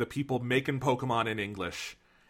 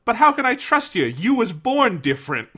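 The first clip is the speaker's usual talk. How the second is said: high, loud cartoon cat voice; a squeaky Meowth pleading loudly; 11 semitones higher, 5 dB louder than usual. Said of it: "now I'm doing Cockney".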